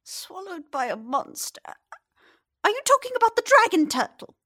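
lightly voiced chatty old lady; old woman. The fisherman's wife explains to the stranger where he is, chatty.

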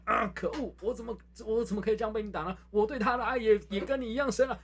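high pained comic villain; comic villain cry. Retold or imitated. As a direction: cry out like a beaten rival. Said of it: "老柯被我揍过去".

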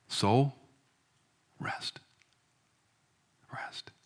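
near-silent soothing whisper to his own soul; hushed soothing. Acted. Preacher hushing his own anxious soul, very soft. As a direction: breathe the word rest gently, almost silent.

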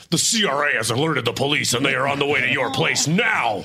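lightly voiced robotic scam call. Panelist imitates a tax scam robocall, lightly voiced. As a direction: read it like a canned threat. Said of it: "Or the ones that are like".

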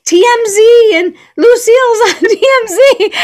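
put-on high, loud excited Australian accent, laughing at the end. Doreen calling from Australia, excited, in an Australian accent. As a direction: gush like an Aussie friend on the phone. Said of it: "in her very Australian accent".

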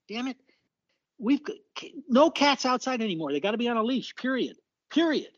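indignant self-quote. Retold or imitated. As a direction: quote your own rant, laying down the law. Quoting own indignant column.

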